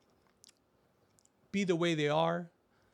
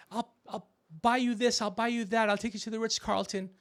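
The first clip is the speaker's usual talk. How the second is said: mock seductive promises; 7 semitones higher, 4 dB louder than usual. Mimicking a woman's promises.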